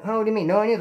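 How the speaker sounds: badly faked paisa accent that drifts Italian; a half-hearted paisa accent, questioning; attempted paisa accent. Kitchen cook puzzled by no onions, lightly faked paisa accent. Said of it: "I'm trying to act like a paisa".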